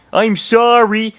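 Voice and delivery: sorry to let everyone down; disappointment. Acted. Roy apologizes to the team, disappointed. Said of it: "said in disappointment".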